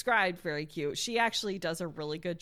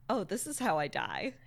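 mock dying whisper. Dramatic dying line, after arrow.

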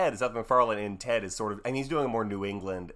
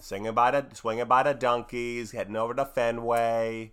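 mock Boston accent. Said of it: "I'm doing Boston".

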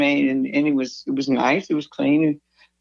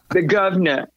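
lightly imitated Cockney "governor", final r dropped; 2 semitones higher than usual. Quoting the bodyguard's name for David, light Cockney. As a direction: say "governor" as "guvna", Cockney style. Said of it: "he was really cockney".

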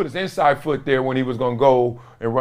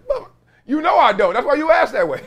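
high-pitched words broken up by laughter; giggling retort at the old teammate; laughing while talking; 11 semitones higher than usual. Retold or imitated. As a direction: laugh your way through the comeback. Mocking a guy he forgot.

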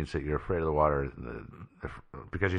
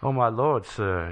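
mock fainting Victorian lady; 5 semitones higher, slower than usual. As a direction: play an offended lady about to swoon. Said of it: "they'd all act all faint and go".

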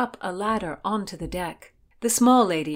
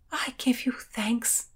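heartfelt thanks; 5 semitones higher, slower than usual. A narrator's reading. Heroine solemnly thanks her rescuer.

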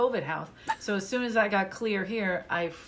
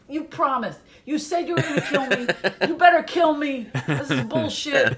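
loud, higher mock outrage; indignant Irish relatives; 6 semitones higher, 7 dB louder than usual. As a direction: protest like you've been cheated, half laughing. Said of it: "That's the Irish. They're like".

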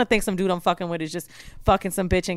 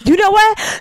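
high, loud burst of indignation; retold angry outburst; 11 semitones higher, 7 dB louder, slower than usual. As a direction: explode into the retold complaint. Retold angry phone call.

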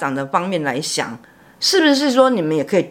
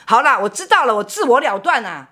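学醉汉说话; 4 semitones higher than usual. Retold or imitated. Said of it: "因为喝醉了".

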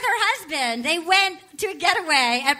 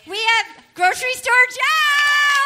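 announcer voice; 6 semitones higher, slower than usual. Acted. Announcing like game show host.

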